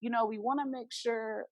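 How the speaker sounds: slow, soft, careful reassurance; imitating staff keeping a patient calm. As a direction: ease into it gently, slowly. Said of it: "trying to keep me calm".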